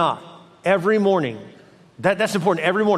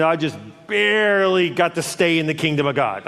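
"barely" stretched long, as if scraping through; a narrow-escape emphasis on "barely". Acted. Voicing believers who scraped through.

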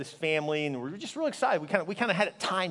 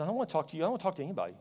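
higher, hurt rebuff; upset refusal; 4 semitones higher, much faster than usual. Retold or imitated. Grieving husband on the phone to best friend, upset refusal. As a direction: push the caller away, pitch lifting.

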